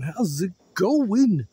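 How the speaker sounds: slow, stretched singsong greeting; drawn-out singsong. Shown as a demonstration. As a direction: sing it out slowly, rising high.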